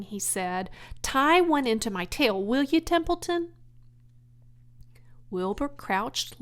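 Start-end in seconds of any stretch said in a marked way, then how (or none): 1.0-3.5 high, loud eager piglet; eager pig asking. Acted. Wilbur asking Templeton for string, eager. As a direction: ask the favor brightly.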